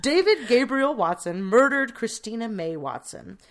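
slow solemn official pronouncement; coroner voice. Shown as a demonstration. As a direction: announce the verdict gravely and slowly. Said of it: "this is my coroner voice".

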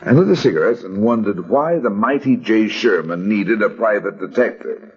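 world-weary private eye narration; noir detective. A narrator's reading. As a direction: tell it like a hard-boiled gumshoe. Hard-boiled first-person narration.

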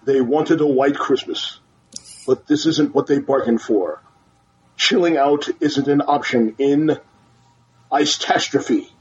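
low, dramatic trailer narration; movie trailer voice. Acted. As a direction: announce it like a blockbuster trailer. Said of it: "in my movie trailer voice".

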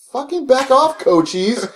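high-pitched warning in a quarrel; heated, high retort; retold angry warning.

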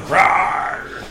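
tiger roar. Acted. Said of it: "Turn into a tiger".

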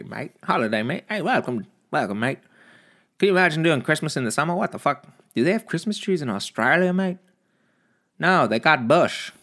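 high mock Aussie; Australian accent. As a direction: play up a silly Australian accent. Mock Australian returns mid-story.

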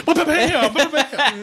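high-pitched mock gunfire; little kid imitation. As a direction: pop out high kid-like bam-bams. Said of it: "the way that little kid".

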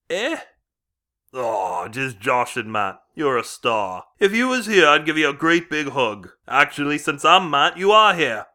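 hammed-up British accent all the way through; shocking British accent. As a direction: play the host in a put-on British accent. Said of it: "forgives me for this shocking accent".

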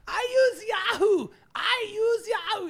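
high slow whiny voice; whiny client voice. Retold or imitated. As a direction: whimper like a fussy client. Mocking Yahoo user.

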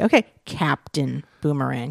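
dry, mocking delivery; sarcastic. Shown as a demonstration. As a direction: say the name with an eye-roll. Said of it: "you have to kinda say it sarcastically".

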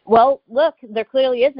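indignant retort. Retold or imitated. Traveler rebutting agent searching her wallet, indignant retort. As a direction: point out the obvious, pitch up.

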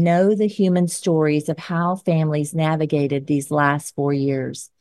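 firm, measured editorial read; scripted commentary read. Acted. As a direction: read it like an op-ed segment. Reads scripted closing commentary.

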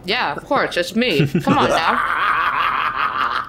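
talking while chewing; mouth full. Real, not acted. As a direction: speak around a bite of food. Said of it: "Someone's eating on mic".

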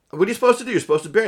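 high, urgent self-questioning; panicking over what to do with the dog; frantic inner voice. Retold or imitated. Grieving dog owner asks himself, frantic.

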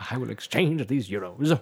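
mock formal customer; hammed-up customer impression. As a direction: exaggerate each word like a stiff tourist. Mimics the same quote in character.

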